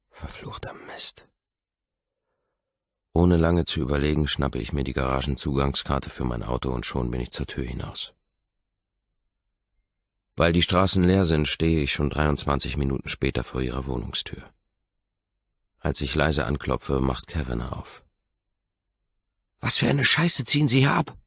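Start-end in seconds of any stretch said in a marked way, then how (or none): 0.1-1.3 "Verfluchter Mist" breathed out unvoiced, slow; whispered curse. A narrator's reading. Man alone realising his mistake, whispered curse. 19.6-21.2 much higher and louder, snapping at the intruder; roommate yelling. A narrator's reading. Roommate blocking the door yells at the visitor. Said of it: "brüllt sie mich an".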